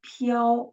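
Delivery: "piao" as a single gliding syllable; one syllable. Shown as a demonstration. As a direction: say "piao" in one beat without a break. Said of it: "there is only one syllable".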